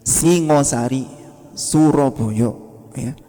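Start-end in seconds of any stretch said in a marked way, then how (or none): 0.1-1.1 "Singosari" slow with a plain clean s; everyday S. Shown as a demonstration. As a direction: draw out "Singosari" with an ordinary s. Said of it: "S yang biasa kita pakai".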